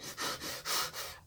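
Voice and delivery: sharp puffs of breath; imitated fake punches. Showing how he fake punched her, breathy punch sounds. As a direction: puff out punch noises. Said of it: "but he was like".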